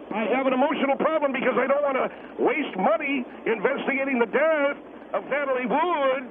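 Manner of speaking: lightly mocking sing-song retort; mock naggy whine. Guest throws the caller's accusation back, mock naggy. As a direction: parody a naggy little girl, lightly. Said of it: "sound like a sing-songy, naggy little girl".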